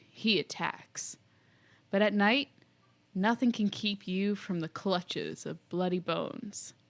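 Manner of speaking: put-on hushed old grandpa telling a scary tale; lightly voiced creepy grandpa warning. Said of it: "our creepy grandpa voice".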